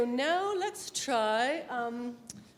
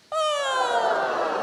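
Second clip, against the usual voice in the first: loud high ah shooting up; fireworks slide; 10 semitones higher, 7 dB louder than usual. Shown as a demonstration. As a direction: throw the voice up like fireworks. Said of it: "throw your voice up in the air like fireworks".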